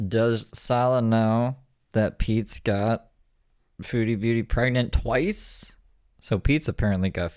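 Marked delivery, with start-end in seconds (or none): 0.1-5.8 1 slow quoted read. Retold or imitated. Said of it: "I saw a clip that was like".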